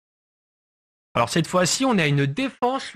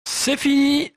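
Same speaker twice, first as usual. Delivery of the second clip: excited; 10 semitones higher, slower than usual. Real, not acted. End of the round called.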